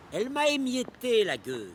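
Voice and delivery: high-pitched, anguished burst of bitterness; bitter outburst. Acted. Old poet railing at what death did, bitter outburst. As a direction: let it burst out high, then fall.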